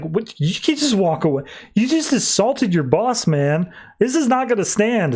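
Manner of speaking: a boss scolding in disbelief, half-acted; mock outrage. Boss outraged at being assaulted.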